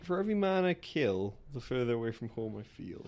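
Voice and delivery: put-on lightly done New York accent. Player works out the film quote in a tentative New York accent. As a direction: try a New Yorker accent. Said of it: "Is it like New York".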